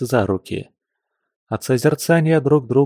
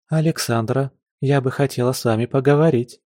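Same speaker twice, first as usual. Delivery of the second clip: polite; 3 semitones higher than usual. Acted. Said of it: "вежливо улыбнулась фарфоровая девушка".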